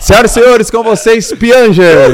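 booming, high announcer call; grand entrance announcement. Pretend. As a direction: announce him like a show host. Podcast opening announcement.

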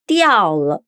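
falling tone; Mandarin diào le. Shown as a demonstration. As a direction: diao le as diào le, falling then light. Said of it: "De novo".

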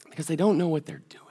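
fast, soft, whispered mercy; hushed whisper. Retold or imitated. Jesus praying for the crowd, whispered softly. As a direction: breathe it out tenderly.

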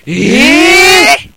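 high, loud "eh?" of disbelief; astonished. Real, not acted. Co-host hears it happened under HEP in Umeda, astonished. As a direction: cry out in real disbelief, pitch up. Reacting to where the robbery happened.

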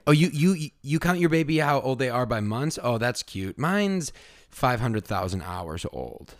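put-on airy one-upmanship over baby ages; lightly voiced smug parent bragging about age in hours.

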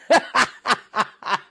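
high, loud staccato laugh; real burst of laughter. Real, not acted. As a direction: crack up mid-sentence. Cracks up at next submission.

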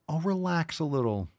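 high, falling condescending coax; mock passive-aggressive. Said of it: "it's very passive aggressive".

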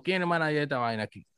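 rápido y brusco; suéltalo de golpe, sin modales. Retold or imitated. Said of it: "No así". (brusco y rápido)

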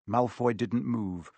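ordinary delivery, nothing marked

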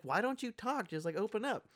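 retold pleading. Wife urging silent husband, retold.

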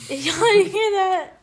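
high, loud and drawn out, alarmed; real spooked outburst, slowed for emphasis; freaking out. Real, not acted. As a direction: urgently check if the others heard it. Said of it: "you're just freaking out now".

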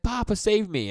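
high-pitched imitation of a panicked child; mock scream. Podcaster imitates the girl calling her father for help, mock scream. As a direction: squeal it as a pretend cry for rescue. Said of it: "And she's screaming".

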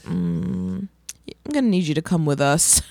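mock cop. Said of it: "They'd be like".

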